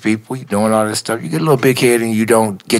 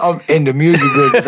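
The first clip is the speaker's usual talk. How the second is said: higher, quick, marvelling repeat; amazed excitement; 4 semitones higher, faster than usual. Real, not acted. Newcomer marvelling at his first week in the business, amazed excitement. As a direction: say it quickly, lifted with disbelief.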